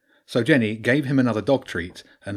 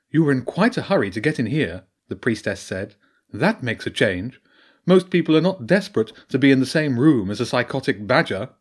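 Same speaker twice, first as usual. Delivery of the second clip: badger priestess voice; 2 semitones higher, 4 dB louder than usual.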